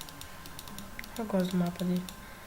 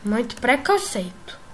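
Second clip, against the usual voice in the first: mock outrage; 6 dB louder than usual. Real, not acted. Mock outrage at being targeted.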